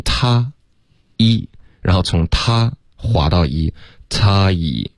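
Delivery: "他" then "一", then joined in a glide; sliding diphthong. Shown as a demonstration. Teacher building the vowel in steps, gliding. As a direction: slide from "他" into a held "一".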